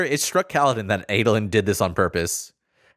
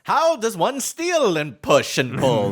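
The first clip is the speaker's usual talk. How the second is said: mock bewildered voice; 8 semitones higher than usual. Mock confused character.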